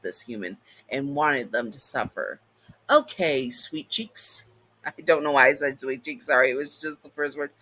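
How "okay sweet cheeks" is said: flirty pet name. Acted. Demon flirting with summoner.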